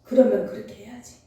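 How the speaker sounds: a hint of a calm husband saying yes; husband's calm reply. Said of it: "우리 장로님 뭐라 했는지 알아요?".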